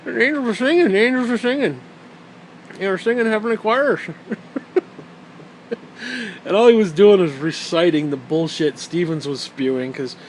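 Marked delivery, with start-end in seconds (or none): 0.0-4.0 high, dreamy mock rapture; mock the believer's wonder; mocking awe. Mocking the friend's awe at the tape. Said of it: "Goddamn Angel tape".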